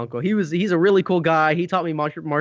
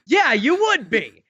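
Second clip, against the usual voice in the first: drawn-out, higher mock agreement; 5 semitones higher, 4 dB louder, slower than usual. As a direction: stretch it out, imitating a friend's tone. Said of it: "it was exactly in that tone".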